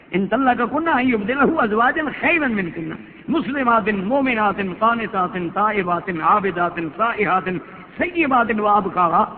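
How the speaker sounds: slow, measured chant of the Arabic verse; Quran recitation. Acted. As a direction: recite each word slowly like tilawat. (آہستہ تلاوت کا انداز)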